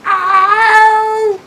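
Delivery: very high loud "aa" yelp; dog yelp. Shown as a demonstration. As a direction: let out a yelping cry from the throat. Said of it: "ये आ की आवाज़ जो है". (ऊँची जोर की कुत्ते की चीख)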